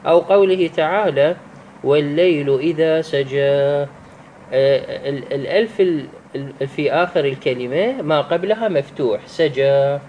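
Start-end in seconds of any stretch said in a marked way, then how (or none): 1.8-3.4 measured recitation, final "aa" of سجى held; elongated vowel. Shown as a demonstration. Teacher reciting a second example, long final vowel in سجى. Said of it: "هاي تمد بمقدار حركتين". 9.3-10.0 سجى with final "aa" held long; elongated vowel. Shown as a demonstration. Teacher isolating the example word, end of سجى drawn out. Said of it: "هاي تمد بمقدار حركتين".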